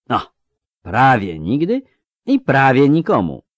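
mocking older soldier, drawn out; slow lisping veteran. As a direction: lisp it slowly with sly irony. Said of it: "zaseplenił wolno".

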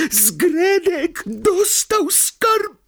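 very high, slow squeaky elf voice, unbelieving; the elf can hardly believe it; disbelieving elf. Acted. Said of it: "z niedowierzaniem".

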